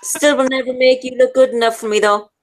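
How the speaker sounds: ordinary talk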